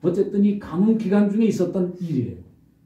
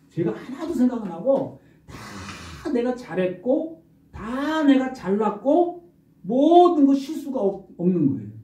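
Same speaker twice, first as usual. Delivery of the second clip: mock boasting; 8 semitones higher than usual. Mocking proud self.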